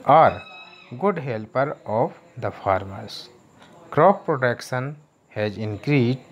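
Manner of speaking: slow, careful word-by-word reading for students; teacher reading an English passage to the class; slow reading aloud. Shown as a demonstration. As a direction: read it slowly so the class can follow. Teacher reads English text aloud.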